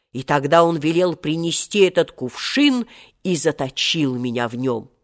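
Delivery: solemn, measured tale of grievance; proud genie, declaiming. Acted. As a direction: declaim like an ancient genie telling his history. Genie tells his tale in the story. (джинн, торжественный сказ)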